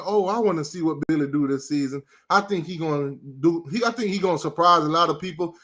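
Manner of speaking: mock the fans' hopeful chatter; mocking Gator fan. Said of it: "They was in the".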